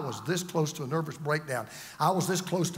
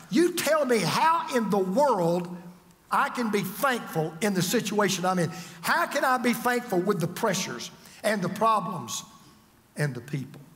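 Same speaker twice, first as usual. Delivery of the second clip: slowed, exasperated challenge that fades; a hint of mock indignation; 3 semitones higher than usual. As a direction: push back like a frustrated listener. Voicing congregants' complaint.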